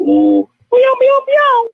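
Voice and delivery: comically high squeaky meows instead of a growl; tiny kitten meowing, played as a panther. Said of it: "Here's my best, uh, Panther growl".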